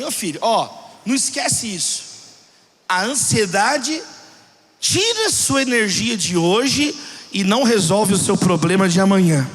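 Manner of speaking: retold father imparting a lesson, deliberately; paternal pastoral wisdom. Pastor father counsels his son about anxiety, paternal wisdom. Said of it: "toda aquela sabedoria paternal, pastoral".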